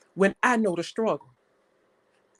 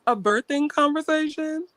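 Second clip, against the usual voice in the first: incredulous question; 5 semitones higher than usual. Real, not acted. Incredulous echo of the accusation.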